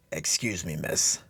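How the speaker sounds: put-on a lightly feeble, frail old man; slightly feeble old beggar voice. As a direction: play weak and harmless to lure her in. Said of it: "in as feeble a voice as I could muster".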